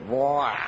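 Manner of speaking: low mock vomiting noise; imitated retching. Preacher mimics the man spewing it out, imitated retching. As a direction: imitate a mouthful coming up. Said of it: "three mouthfuls would go".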